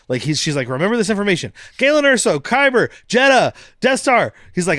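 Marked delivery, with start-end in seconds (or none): 0.7-4.3 high, louder rattled-off yelling; mock yelling. She yells the key words at Cassian, high and loud. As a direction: blurt the names out in a high yell. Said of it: "she's just yelling words".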